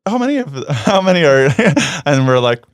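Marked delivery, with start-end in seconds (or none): 0.1-1.5 high, chirpy voice of a surprised restaurant worker. Retold or imitated. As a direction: mimic the staffer, pitched way up and perky. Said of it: "sometimes they're like".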